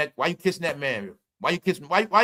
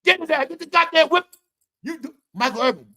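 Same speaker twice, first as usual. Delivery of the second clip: higher, louder mock sideline shout; imitating a sideline yell; 8 semitones higher, 4 dB louder than usual. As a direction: yell it like a hyped fan on the sideline. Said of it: "yelling out all these type of words".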